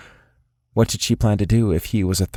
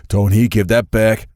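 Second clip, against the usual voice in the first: louder firm command; order; 2 semitones higher, 5 dB louder than usual. A narrator's reading. Lance orders the monkey to give the watch back, louder. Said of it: "Lance ordered".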